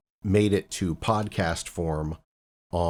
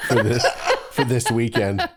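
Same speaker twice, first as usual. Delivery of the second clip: laughing; 3 dB louder than usual. Real, not acted. Host cracking up mid-question.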